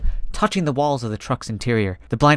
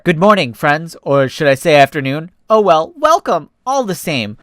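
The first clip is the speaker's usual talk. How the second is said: louder, cheerful greeting; gushing welcome; 2 semitones higher, 4 dB louder than usual. Acted. Cheetah receptionist welcoming guests, louder and gushing. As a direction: pour on the welcome.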